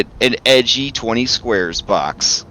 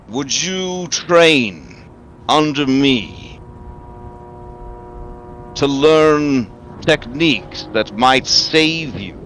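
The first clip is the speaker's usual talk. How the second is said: booming voice; 3 semitones higher than usual. Acted. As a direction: boom it out like a god. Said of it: "in a booming voice".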